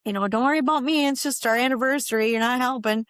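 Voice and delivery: a hammed-up irritated nag; mock angry complaint. Wife to husband on the kayak, mock angry complaint. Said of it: "I was super mad".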